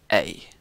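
A as in the end of cafe; long E sound. Shown as a demonstration. Teaching Latin long E, A said "ay". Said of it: "You would pronounce a long E".

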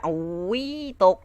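sudden high startled cry; startled yelp. Real, not acted. Gamer to himself as he falls, startled. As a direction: caught off guard as you fall.

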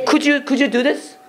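very slow, gentle asking; slow polite request. Shown as a demonstration. Teacher modelling a polite request, very slow. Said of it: "이거 해줄 수 있어 할 때".

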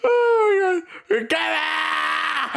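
very high, breaking-up yell; laughing shriek. Real, not acted. Player losing it at an opponent, shrieking with laughter. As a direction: shriek helplessly through real laughter. Cracking up while fighting opponent.

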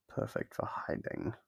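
a soft teasing whisper, barely voiced; hushed whisper. Captor whispering a tease to the prisoner.

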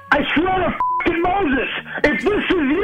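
exasperated. Acted. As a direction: spell each word out in disbelief. Rob swears at the caller.

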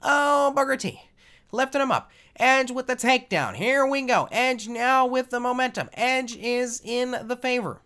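loud, high wrestling play-by-play; announcer voice. Pretend. Gamer calling his own match, big high announcer voice. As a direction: call the match like a ringside announcer. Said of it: "That's my announcer voice right there".

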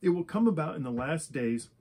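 measured read-aloud Bible passage, phrase by phrase; lightly formal public reading; scripture reading. Acted. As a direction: read out the prophecy in even, deliberate phrases with small pauses. Reads scripture aloud to listeners.

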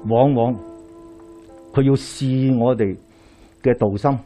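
ordinary talk, nothing marked

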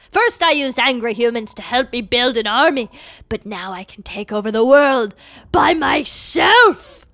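lightly voiced scheming villain; boast, building to the final word. Villain boasts of taking over the world, menacingly.

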